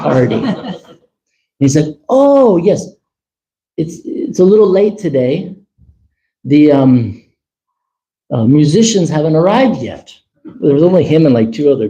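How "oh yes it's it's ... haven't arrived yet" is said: swami's polite cover. Retold or imitated.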